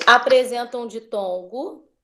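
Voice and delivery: slow dictation with held-open rising ends; measured classroom dictation, ending each phrase on a rise. Real, not acted. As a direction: dictate slowly for pupils to copy. Tia, repete, por favor.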